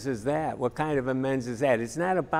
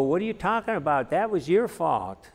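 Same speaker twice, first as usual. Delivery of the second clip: fast, higher, mock-indignant comeback; defensive retort; 4 semitones higher than usual. Speaker demonstrating wrong reply to offended person, fast mock indignation. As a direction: snap back defensively, half laughing. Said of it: "You don't go".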